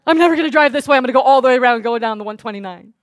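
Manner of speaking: high, crying panic over being killed; fearful sobbing whine; mock panicked crying. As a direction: wail in hammed-up fear. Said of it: "did I sit about".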